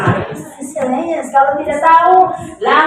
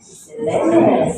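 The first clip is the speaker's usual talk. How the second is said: British accent; 5 semitones higher, 3 dB louder, slower than usual. Shown as a demonstration. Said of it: "Kalau U K".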